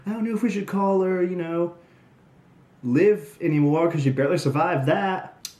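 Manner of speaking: put-on a fuller try at an Australian accent, quoting Peyton; mock Australian accent. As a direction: have another go at her Australian line, fast. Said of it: "There's a really great line from Peyton Royce".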